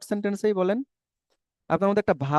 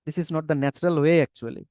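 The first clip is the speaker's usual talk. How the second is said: slow emphasis; much slower than usual. Real, not acted. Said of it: "slow emphatic English aside".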